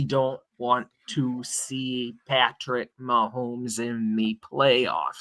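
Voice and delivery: slow, flat robotic monotone. Real, not acted. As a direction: drone it out like a robot. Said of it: "Sorry for the robot voice there".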